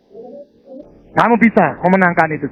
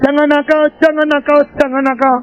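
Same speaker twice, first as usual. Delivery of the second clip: raised, nagging parent voice, higher; parent scolding; 8 semitones higher than usual. Retold or imitated. Parents nagging their kids, raised and nagging. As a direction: nag like a parent.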